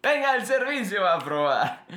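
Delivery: put-on Lumière's French accent. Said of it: "nótese el acento francés".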